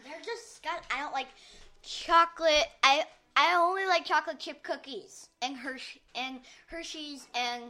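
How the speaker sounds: chewing while talking. Real, not acted. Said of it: "you're eating, uh, an M and M right now".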